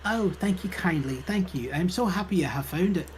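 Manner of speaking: lightly voiced grateful British librarian. Librarian thanks visitor for returned claim check, British character voice. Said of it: "I am gonna do the British voice".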